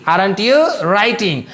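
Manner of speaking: "aren't you writing" stretched out very slowly; teacher repeating "aren't you writing" slowly for notes; slow dictation. Shown as a demonstration. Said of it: "तो बनेगा aren't you writing".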